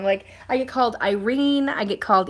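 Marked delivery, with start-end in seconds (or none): 1.0-1.7 "Irene" with an r in the middle; "Irene" offered as a wrong version; mispronounced name. Shown as a demonstration. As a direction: quote the wrong name, "Irene", eye-REEN. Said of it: "how people say it wrong".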